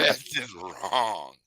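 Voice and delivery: That's just wrong stretched very slowly; slow drawn-out verdict. Real, not acted. Man judging brothers punished for her shot, slow. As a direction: drag each word out in disbelief.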